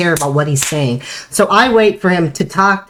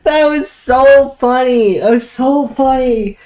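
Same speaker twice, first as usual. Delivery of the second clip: still laughing; 7 semitones higher, slower than usual. Real, not acted. Recovering from laughing fit.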